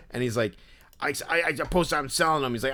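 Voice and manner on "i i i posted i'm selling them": lightly imitated in-your-face collector; intense Philly dude. Obsessed fan listing his groups, lightly voiced Philly dude. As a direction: rattle off boasts as a Philly guy. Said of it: "the impression that I was doing of him".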